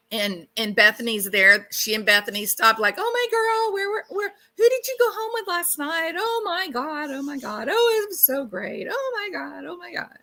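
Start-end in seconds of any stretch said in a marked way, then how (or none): 3.0-10.1 put-on high, squealy girl-talk voice; excited high-pitched girlfriend impression; gushing girlfriend. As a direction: gush like excited college girls gossiping. Acting excited girlfriends greeting each other.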